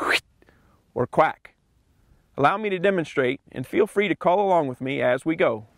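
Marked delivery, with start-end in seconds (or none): 0.1-0.2 "Wheat" pushed out on a short burst of air from the chest; chest-air syllable. Shown as a demonstration. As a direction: say "Wheat" driven from the chest, like a quack. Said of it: "Using the air from your chest, say".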